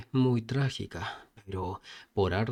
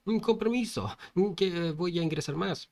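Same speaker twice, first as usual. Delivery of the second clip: mild mock yell; 6 semitones higher than usual. Passenger pushing onto a packed bus, mild high-pitched yell. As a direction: pretend to call out over a crowd.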